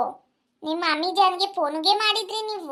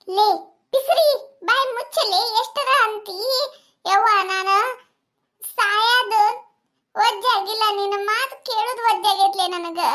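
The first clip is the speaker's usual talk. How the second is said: angry scolding; 3 semitones higher than usual. Acted. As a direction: tell her off sharply, fed up. Mother-in-law snaps at daughter-in-law.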